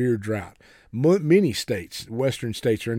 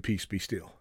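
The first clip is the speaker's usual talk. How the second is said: calm command; 5 semitones lower, 8 dB quieter than usual. Retold or imitated. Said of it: "when Jesus simply said".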